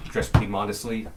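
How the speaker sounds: ordinary talk, nothing marked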